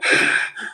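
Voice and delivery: a forced breath shoved out; pushed exhale. Shown as a demonstration. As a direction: blow out hard on purpose. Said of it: "what I mean is like this".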